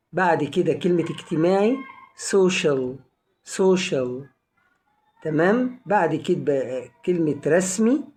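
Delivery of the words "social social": "social" modelled twice, C sounded as SH. Shown as a demonstration. Teacher modelling a word for learners, C as SH in "social". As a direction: say "social" with SH in the middle, then repeat. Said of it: "بتنطق شين".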